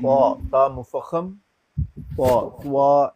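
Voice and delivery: تا said heavy, without a w sound; full heavy تا with no و after it. Shown as a demonstration. Teacher drills the heavy تا, no w sound. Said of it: "اس طرح نہیں، واو نہیں ساتھ add کرنی".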